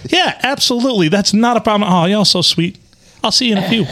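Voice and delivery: high-pitched, sugary retold politeness; lifted, over-polite quoted voice; sweet agreeable. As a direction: play up the sweet drive-thru chat. Retold sweet drive-thru exchange.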